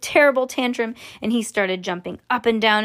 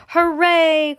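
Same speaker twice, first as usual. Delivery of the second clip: high, loud hooray; triumphant cheer; 7 semitones higher, 6 dB louder than usual. Acted. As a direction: cheer it out with delight. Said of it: "cried Mister Wonka".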